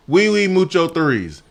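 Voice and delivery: high mock French-Spanish mashup; hammed-up mixed-language plea; fake foreign language. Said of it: "I just mixed in Spanish, fake, uh, French".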